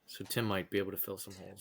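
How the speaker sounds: soft unvoiced whisper aside. Real, not acted. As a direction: whisper it like a secret. Aside whisper about Tim.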